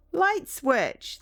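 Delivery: loud, high burst of triumph; triumphant light switch discovery; excited shout. Real, not acted. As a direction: yell it like you've just struck gold.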